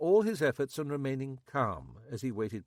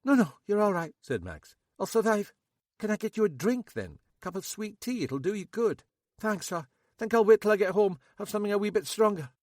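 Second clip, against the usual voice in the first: higher, louder nervous local man; Max; 10 semitones higher, 7 dB louder than usual. A narrator's reading. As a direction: play Max high and jittery. Max voiced.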